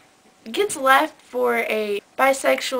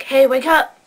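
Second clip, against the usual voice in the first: louder call to rouse a sleeper; mock wake-up call; 7 dB louder than usual. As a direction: call out as if waking someone on the phone. Waking someone on the phone.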